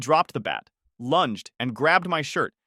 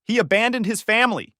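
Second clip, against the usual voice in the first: high, loud, angry outburst; shouted accusation; 9 semitones higher, 5 dB louder than usual. A narrator's reading. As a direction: shout the accusation in acted rage. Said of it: "he shouted".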